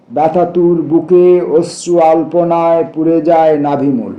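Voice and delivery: measured verse reading, phrase by phrase; deliberate, lyrical recital in short phrases; poetry recitation. Acted. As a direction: recite the poem with a pause after each image. Recites a poem aloud.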